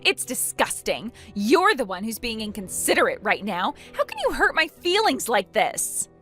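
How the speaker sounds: hammed-up wounded indignation; affronted, rising at the end; offended. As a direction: protest as if deeply insulted. Acted quarrel, Opal offended.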